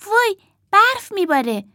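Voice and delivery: high, thrilled cry of wonder; light up at the snow; girl doll seeing snow, high and thrilled; delighted gasp. Acted.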